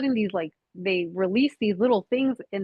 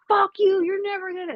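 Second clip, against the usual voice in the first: retold scream; 10 semitones higher than usual. Woman retelling her dream fight with the voice, screaming. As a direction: cry it out high, easing off in volume. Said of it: "I was just screaming".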